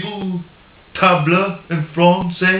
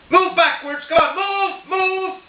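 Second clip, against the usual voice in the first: much higher, mock-exasperated Irish accent; frustrated Irish shout; 12 semitones higher than usual. Paddy Irishman yelling at the spider to move, in a higher Irish accent. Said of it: "I'll do it in an Irish accent".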